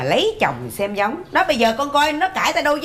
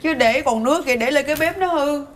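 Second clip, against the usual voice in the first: fake crying; 2 semitones higher than usual. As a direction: play the tearful martyr. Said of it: "má khóc vậy em". (giả khóc, rên rỉ nhận lỗi)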